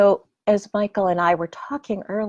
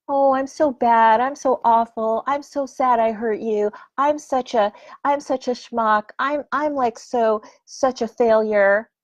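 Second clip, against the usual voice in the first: wallow theatrically in guilt; whiny self-pity. Retold or imitated. Inner critic mocking itself to get attention. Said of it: "is just like a drain".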